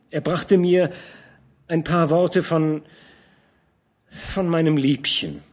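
put-on young man protesting to the old commander; young knight protesting. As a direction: defend your honour eagerly. Georg confesses, ashamed.

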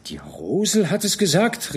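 etwas lauter herausgerutscht; entfährt ihm spontan; unwillkürlicher Ausruf. Acted. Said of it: "rief Georg unwillkürlich". (Georg ruft der Wirtin überrascht zu, ein leichter Ausruf)

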